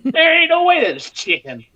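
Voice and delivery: can't believe the chicken won; disbelief. Retold or imitated. Stunned chicken won, not brisket.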